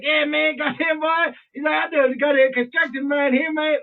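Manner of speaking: put-on deep Southern accent. Stranger telling diners about his construction work, imitated thick Southern accent. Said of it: "deep accent".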